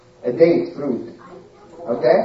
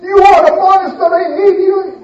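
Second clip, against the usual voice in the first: angry scolding; 5 semitones higher than usual. Acted. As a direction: tear into him for hurting the baby. Queen shouts at Pharaoh over baby.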